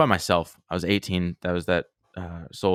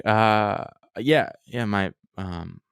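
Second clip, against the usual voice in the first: hesitant, stumbling cover story; unconvincing, halting reenacted fib; suspicious-sounding; much slower than usual. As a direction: fumble through a retold excuse with ums and restarts. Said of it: "That was suspicious sounding".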